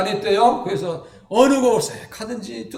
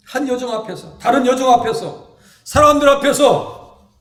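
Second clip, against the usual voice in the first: building emphasis; 3 semitones higher, 7 dB louder than usual. Real, not acted. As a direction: build to a peak. Building list of denials.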